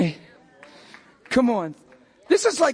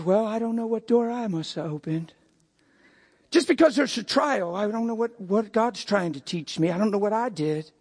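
churchy whining; 4 semitones lower than usual. Retold or imitated. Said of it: "It's churchy language".

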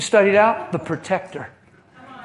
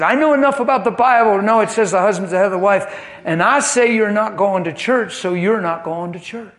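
fast, loud, indignant husband laying down the law; mock-angry husband, fast and loud; 3 semitones higher, 3 dB louder than usual. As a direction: rattle it off like a domineering husband. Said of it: "And he said".

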